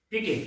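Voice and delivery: पीके said alone, falling, as peek; pronunciation model. Shown as a demonstration. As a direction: model the word पीके on its own with a falling tune. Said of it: "इसका pronunciation पीके है".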